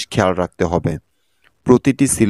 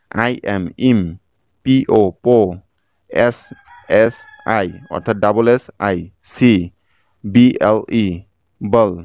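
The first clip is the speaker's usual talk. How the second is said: syllable-by-syllable spelling; slower than usual. Shown as a demonstration. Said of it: "একইভাবে দেখুন".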